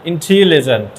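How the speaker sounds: "ইন্টেলিজেন্ট" sounded out in separate beats; syllable-by-syllable demonstration. Shown as a demonstration. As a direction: draw out each syllable of "ইন্টেলিজেন্ট" for the class. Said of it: "এটাও কিন্তু এক".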